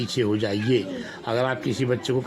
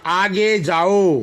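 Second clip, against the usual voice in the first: slow and louder for the class; slow model reading; 3 semitones higher, 5 dB louder, much slower than usual. Shown as a demonstration. Teacher calls sentence to young class. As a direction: call it out for the children to repeat. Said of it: "teacher models for children".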